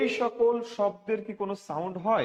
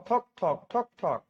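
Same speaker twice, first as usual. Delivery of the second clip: slow, evenly spaced knock-knock; slow knocking demo; slower than usual. Shown as a demonstration. Teacher demonstrating the knock sound to students, slow and spaced. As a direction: tap out ঠক ঠক slowly like knocking on a door. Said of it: "বলছি ঠক ঠক".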